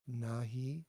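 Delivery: "nahi" with a clear breathy h in the middle; "nahi": let the h be heard; audible h. Shown as a demonstration. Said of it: "There's a h sound there".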